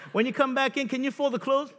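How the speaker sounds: high sweet request; mock wife. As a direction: put on a sweet wife's ask.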